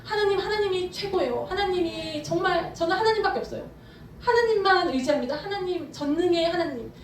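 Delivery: lightly acted gushing praise; David adoring God. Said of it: "이런 것처럼 다윗이 하나님한테".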